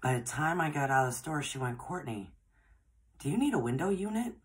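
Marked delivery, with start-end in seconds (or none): 1.8-4.4 lightly voiced boss, the question rising high; boss's offer. Boss on the phone offers a window unit, rising high.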